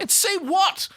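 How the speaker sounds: high, loud disbelieving question; incredulous. Real, not acted. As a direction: throw it back loudly in high-pitched disbelief.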